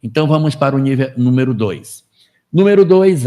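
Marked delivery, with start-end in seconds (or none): 2.5-3.2 emphatic announcement. Shown as a demonstration. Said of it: "announcing point two".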